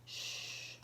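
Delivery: Sh, a soft voiceless hush; teacher modelling the sh sound. Shown as a demonstration. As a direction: push air for Sh, no voice. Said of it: "S H".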